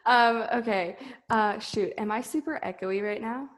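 muffled from under a blanket. Real, not acted. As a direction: talk with a blanket over your head. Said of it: "I had the blanket over my head".

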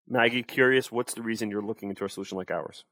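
flat, uncurious monotone read. Shown as a demonstration. Sales coach demoing a bored prospect question, monotone. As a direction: sound like you don't care. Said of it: "That's monotone".

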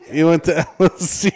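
fast, high and loud, breaking into laughter; laughing. Real, not acted. Topping the college joke to his co-host, laughing. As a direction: crack up helplessly through the words. Cracking up at own riff.

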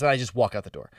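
ordinary talk, nothing marked

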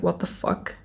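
whispered shock at the mirror. Retold or imitated. Seeing yellow teeth while brushing, shocked whisper. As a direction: gasp it out under your breath, horrified. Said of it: "and I was like".

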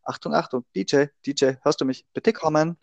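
mock radio call, clipped; imitating a walkie-talkie operator; over walkie talkie. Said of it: "ich könnte Funk imitieren". (gespielter Funkspruch)

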